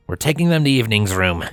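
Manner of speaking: stern. Acted. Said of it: "he told Grady in a stern voice".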